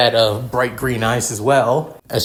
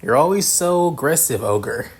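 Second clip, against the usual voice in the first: mature man voice; 4 semitones higher than usual. Acted. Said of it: "a mature voice".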